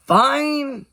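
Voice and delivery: a touch of a sigh. Acted. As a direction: give in with a breath. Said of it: "he sighed".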